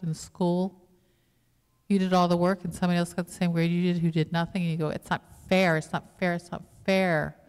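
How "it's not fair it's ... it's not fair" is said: mock schoolkid protest, punching FAIR; repeated grumble with a loud, stretched "fair"; indignant complaint. Preacher voices a student cheated on a group project, indignant.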